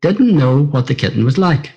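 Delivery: put-on gentle read-aloud for children, a touch livelier; storybook reading. A narrator's reading. Friend reading Brona's story aloud, gently storytelling.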